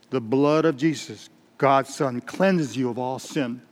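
slow, steady reassurance; measured, unflustered preacher's reply; calm assurance. Acted. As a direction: answer calmly, drawing out the promise. Preacher calmly answers desperate man.

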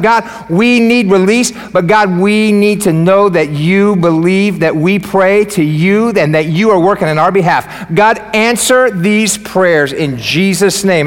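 slow, emphatic public prayer; fervent closing prayer. Real, not acted. Pastor closing a prayer for the congregation, fervent. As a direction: pray aloud over the congregation, drawing out the words.

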